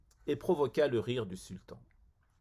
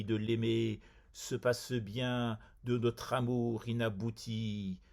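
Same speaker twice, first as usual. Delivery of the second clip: measured, even-toned verse reading; understated recital of a classical poem; poetry recitation; slower than usual. Acted. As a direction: recite it line by line, with steady pitch and pauses between couplets. Recites his translated poem.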